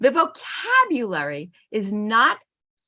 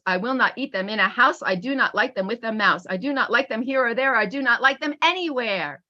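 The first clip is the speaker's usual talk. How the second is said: lively storybook reading, bouncing between the two characters; read-aloud voice. Acted. Teacher reading a Seuss book aloud, lively storybook voice. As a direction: read it out like a picture book to a class.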